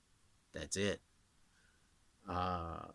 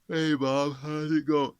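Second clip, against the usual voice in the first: yawning voice; 5 semitones higher, 8 dB louder than usual. Shown as a demonstration. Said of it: "you're yawning".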